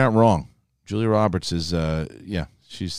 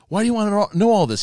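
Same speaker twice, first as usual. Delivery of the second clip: exasperated retort; 10 semitones higher, faster than usual. Retold or imitated. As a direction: throw the question back, imitating an exasperated woman. Acting out the cheating woman's retort.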